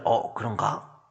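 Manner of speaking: low, soft, wavering reaction; subdued second thoughts; doubtful giving in. Acted. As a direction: murmur it as if half persuaded. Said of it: "이렇게 반응하시면 안 돼요".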